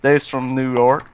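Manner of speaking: slow mock Southern drawl; Southern accent. Co-host playing the Ohioan's reply, slow put-on Southern accent. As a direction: answer slowly as an imitated Southerner. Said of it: "they sound like this".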